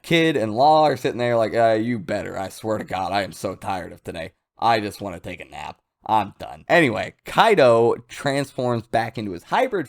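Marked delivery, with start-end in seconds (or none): 1.5-6.6 low, soft and worn out; tired grumble. Retold or imitated. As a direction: sigh it out like you're exhausted. Kid and Law exhausted.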